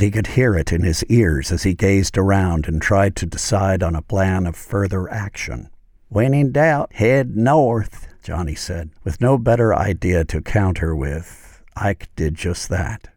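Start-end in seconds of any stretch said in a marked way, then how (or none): 6.1-8.1 a bit higher, teasing voice; playful sidekick. Acted. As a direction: toss off the advice lightly. Johnny's voice, higher.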